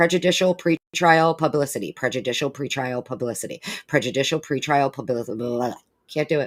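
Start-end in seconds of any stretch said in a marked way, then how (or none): 0.0-5.4 phrase said very fast, three times over. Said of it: "say that five times fast".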